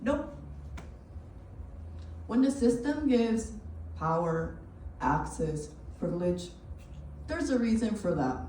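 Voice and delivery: measured monologue, each phrase set apart by pauses; spoken-word performance. Acted. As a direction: recite it deliberately to an audience.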